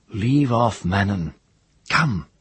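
high, firm order; commanding girl. Acted. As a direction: call the guard off sharply. Priestess ordering the guard away.

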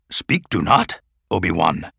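put-on firm, gently stern old master; firm Yoda voice. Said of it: "said Yoda firmly".

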